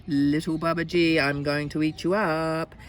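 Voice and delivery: menacing tiger. Acted. Second tiger threatens the boy.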